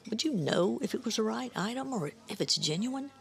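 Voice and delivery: put-on old woman's teasing French accent; coy old woman with a French accent. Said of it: "heavy French accent".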